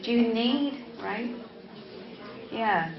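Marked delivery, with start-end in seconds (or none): 0.0-0.9 "Do you" merged into "d'you" before "need"; one quick syllable for "Do you"; connected speech. Shown as a demonstration. Teacher showing students how they say it, connected. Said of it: "They would say".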